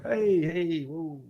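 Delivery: soft, easing-off "hey"; hardened, unpanicked reaction. Shown as a demonstration. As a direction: talk the gunman down softly. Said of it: "I'm a homeless guy. I'm hardened".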